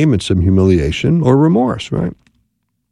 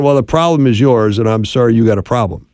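dismissive non-apology; faster than usual. Shown as a demonstration. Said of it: "It's saying".

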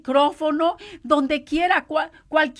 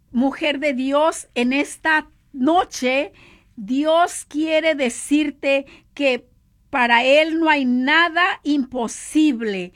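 slow solemn address; slower than usual. Acted. Preacher addresses woman solemnly.

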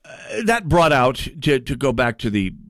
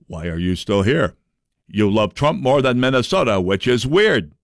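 Richard Karlbaum impression; 3 semitones lower than usual. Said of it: "excellent Richard Karlbaum impression".

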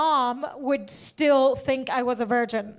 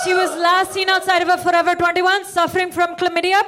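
louder, pleading TV-commercial appeal; charity ad voice; 4 semitones higher, 5 dB louder than usual. Retold or imitated. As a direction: beg like a late-night animal-shelter ad. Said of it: "like an ASPCA commercial".

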